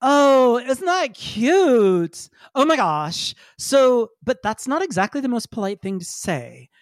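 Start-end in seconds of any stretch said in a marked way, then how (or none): 0.0-3.4 gushing Pinky Perfect. Acted. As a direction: gush at the baby robot like it's the cutest thing. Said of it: "Pinky Perfect says".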